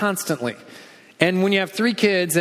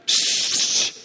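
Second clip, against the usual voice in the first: shush. Acted. Crowd hushing the blind beggar.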